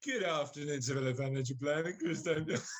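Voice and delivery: lightly posh, low business greeting; put-on professional voice, close to cracking up; posh phone voice. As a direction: pitch it down like an office phone answer. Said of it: "putting my posh voice on".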